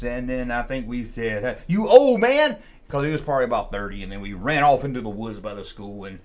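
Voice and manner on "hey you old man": high, loud, slow taunt; cheeky taunt. Retold or imitated. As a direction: jeer at him before running off. Kids taunt the janitor.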